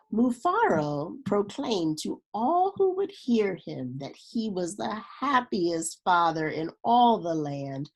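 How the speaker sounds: steady storybook reading voice; story narration. A narrator's reading. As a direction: read it like a children's picture book. Reads a picture book aloud.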